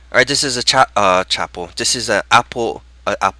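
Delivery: groggy, tripping over words; fumbling and stammering. Real, not acted. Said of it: "Holy moly, I can't even speak".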